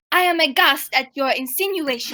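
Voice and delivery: put-on careful, lightly French-accented protest; attempted French accent. Accused thief answering the priestess, careful French accent. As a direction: have a determined go at a French accent. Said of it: "No, I'm going to try".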